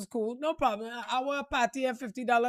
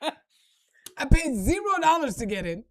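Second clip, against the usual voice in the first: laughing; 3 semitones higher, 3 dB louder, slower than usual. Real, not acted. Laughing at her free entry.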